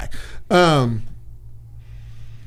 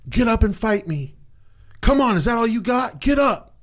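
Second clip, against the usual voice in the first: retold taunt; 9 semitones higher than usual. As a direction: goad him to get up, pitch climbing each line. Uncle taunting during beating.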